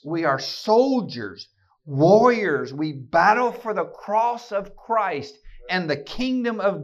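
loud, slow rallying cry. Acted. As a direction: rouse them to battle. Back to the prayer's fighting call.

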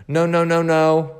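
high, mock refusal; chanting no to keep the sword; sing-song no. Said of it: "He even said it like that".

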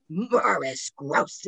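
slow, lightly rasped imitation of the spirit; a mild mock-demonic drawl on the name; scary raspy voice. Imitating the recorded spirit saying the investigator's name, slow rasp. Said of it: "in this, like, raspy, scary voice".

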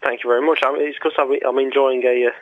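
talking while chewing toffee; words round a sticky toffee. Real, not acted. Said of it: "You were chewing on a toffee?".

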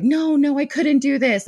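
high, gushing voice, politely declining; sweet refusing friend. Retold or imitated. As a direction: play the flustered friend who can't accept it.

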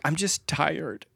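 drawn out, tired; slow and weary. Retold or imitated. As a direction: sigh it out slowly. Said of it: "then you get to here".

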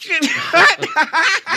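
big burst of laughter. Acted. Laughing at the joke.

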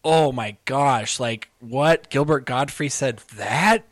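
slow, drawn-out mock disbelief; mock shock. Imagining listeners reacting to the tweet, mock shocked. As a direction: act mildly scandalized. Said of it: "but it wasn't like".

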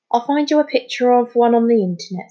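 a touch of kindness; kindly. A narrator's reading. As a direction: offer help to a friend. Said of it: "said Amir kindly".

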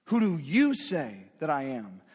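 a searching question landing on "you"; stress on YOU. Shown as a demonstration. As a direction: press "you" hard and let the rest fall. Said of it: "you's" emphatic".

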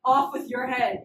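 loud distrustful king passing sentence; mock accusation. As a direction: play a suspicious king catching liars. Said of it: "like, not trusting of people".

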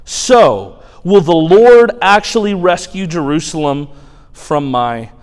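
mock their gods from the wall; taunting shout. Assyrian spokesman taunting Judah's gods, loud and scornful.

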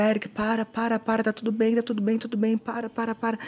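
repeated, slightly urgent soothing; retold attempt to calm someone down; acalming plea. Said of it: "Acalmando ele". (tentando acalmar, em súplica)

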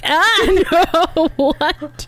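high-pitched laughing yelp of disbelief; mock horror. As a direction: act out a grossed-out recoil. Acted disgust at kissing a frog.

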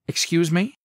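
high, sharp "Excuse me?"; indignant snap. A narrator's reading. Candace to Brandon grabbing her wrist, indignant snap. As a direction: bristle at being grabbed. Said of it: "she snapped".

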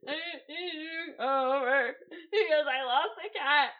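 mock-crying plea, pitch wobbling up; imitating hysterical crying. Caller begging friend's mom for help, mock hysterical crying. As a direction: act out a tearful confession. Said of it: "I'm now in hysterics crying".

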